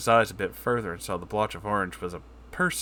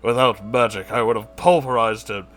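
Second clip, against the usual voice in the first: boastful rant; 3 semitones higher, 5 dB louder than usual. Acted. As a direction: brag wildly, climbing up. Boasting about unicorn defeat.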